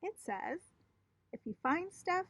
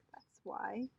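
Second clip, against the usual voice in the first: whispered; 5 dB quieter than usual. Acted. Child ends sadly.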